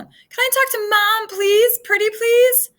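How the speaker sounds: put-on high, loud begging little girl; little girl asking to talk to her mom, pleading; pleading child. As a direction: beg sweetly like a small child.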